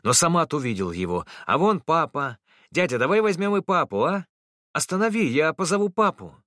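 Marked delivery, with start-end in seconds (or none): 1.5-6.3 put-on much higher, urgent child's voice; a kid who has just spotted his dad; excited small boy. A narrator's reading. Boy Samat asking the driver to stop for papa, urgent.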